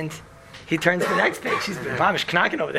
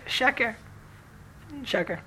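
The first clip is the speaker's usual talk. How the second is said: hushed one-word verdict; very low voice; 6 semitones higher, 7 dB quieter than usual. Retold or imitated. Rabbi finally answering after long silence, in a very low voice. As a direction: say it under your breath, imitating the rabbi. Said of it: "in very low voice".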